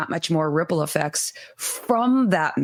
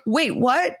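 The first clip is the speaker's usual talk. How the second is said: confused surprise; 7 semitones higher than usual. Retold or imitated.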